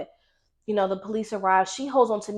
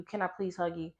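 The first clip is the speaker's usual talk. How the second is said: repeated even softer, nearly fading out; softest voice; 7 dB quieter than usual. Retold or imitated. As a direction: ask again, barely above a breath. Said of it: "she had the softest voice".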